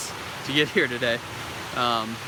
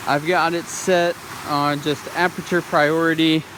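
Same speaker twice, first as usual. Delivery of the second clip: raised voice over waterfall noise; beside rushing river; 3 dB louder than usual. Real, not acted. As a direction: talk over the roar of the falls. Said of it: "I hope you can hear me over this waterfall".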